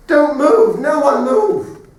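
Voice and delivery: high, loud urgent cry, last words drawn out; screamed warning. Retold or imitated. Wounded father warning his family under helicopter fire, screaming. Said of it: "He started screaming at us".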